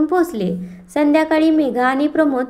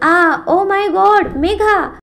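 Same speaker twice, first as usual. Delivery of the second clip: joyful squeal, high and drawn out; excited high-pitched shriek of recognition; delighted loud cry; 6 semitones higher, 4 dB louder, much slower than usual. A narrator's reading. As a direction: cry out in happy disbelief. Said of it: "दिया जोरात ओरडते".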